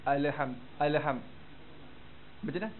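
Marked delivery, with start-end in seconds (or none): 0.0-1.2 "Alham" with the lam bounced like qalqalah; the wrong bouncing lam in "Alham". Shown as a demonstration. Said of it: "lam tu, ah, dia jadikan qalqalah".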